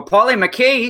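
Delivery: a mock Scottish roll on the name; bad Scottish accent. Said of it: "That's bad Scottish accent".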